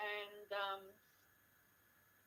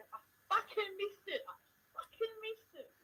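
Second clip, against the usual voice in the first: imitating coworker; 13 semitones higher than usual. Coworker's outburst, retold.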